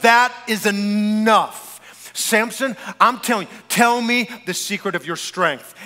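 imitating a woman who's had enough; angry. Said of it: "She's angry".

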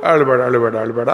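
gently hushed, fading comfort; soothing mother. Acted. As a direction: hush a crying daughter. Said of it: "ಅವಳನ್ನ ತಬ್ಬಿಕೊಂಡು ತಲೆಯೆಲ್ಲ ಸವರಿದ್ಲು". (ಸಮಾಧಾನಪಡಿಸುವ ತಾಯಿಯ ಮೃದು ಧ್ವನಿ)

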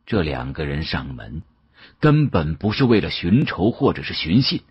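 ordinary delivery, nothing marked

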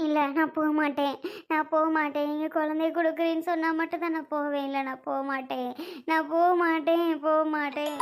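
crying, insisting; tearful refusal. Acted. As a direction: dig in stubbornly through tears. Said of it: "ஏன் அழுதுட்டு இருக்க?".

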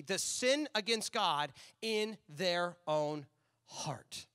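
slow, emphatic scripture reading. Acted. Pastor reading Jesus' words to the church, slow and emphatic. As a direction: read Jesus' words with weight.

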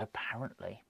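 stifled laugh breaking into the words. Real, not acted. Football vlogger amused by a Barcelona transfer rumour, laughing. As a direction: try to get it out through a real laugh. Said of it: "That's why I'm laughing".

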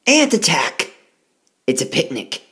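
high, loud cry of alarm; ants screaming. Acted. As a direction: shout it like a tiny panicked ant. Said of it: "the ants all scream".

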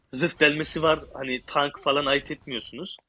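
a bit sick, voice off; speaking while under the weather. Real, not acted. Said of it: "Biraz da hastayım kusura bakmayın sesim kötü gelebilir".

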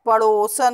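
पड़ोसन with a long round "o"; correct pronunciation. Shown as a demonstration. Teacher corrects the faulty word, long-o पड़ोसन. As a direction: stretch the o in पड़ोसन. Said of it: "नहीं होता".

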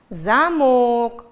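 «замок» with the stressed vowel drawn out; stretched vowel demo. Shown as a demonstration. Teacher showing pupils how to stretch the vowel in «замок». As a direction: pull the vowel long in «замок». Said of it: "Тянем гласный звук".

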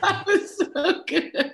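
high, drawn-out laughing squeal; laughing praise. Real, not acted. Guest praising the host's introduction, laughing high. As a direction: gush through the laughter.

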